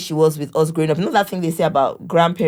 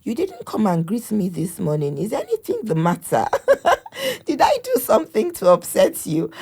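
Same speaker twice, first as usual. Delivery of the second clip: rising higher, a touch of mock hurt with a giggle; imitating her mother; 5 semitones higher than usual. Daughter retells her mother fretting at the boys, lightly mock hurt. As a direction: lightly voice the worried grandma asking why. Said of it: "she's like".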